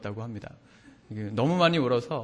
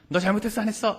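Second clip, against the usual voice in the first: higher-pitched mock scolding of a child; scolding an adult's question; 7 semitones higher, faster than usual. Preacher acts out an adult scolding a naughty child, higher-pitched mock scolding. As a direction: put on a pointed, high-pitched telling-off. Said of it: "야단을 치면요".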